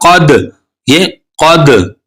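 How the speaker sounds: "कद" with the dal caught and released; qalqala on dal. Shown as a demonstration. Teacher showing students the qalqala bounce, slowly. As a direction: bounce the final "द" in "कद". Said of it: "दाल पर कलकला है".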